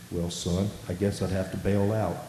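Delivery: calm, measured reply, lightly voiced. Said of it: "in his calm voice".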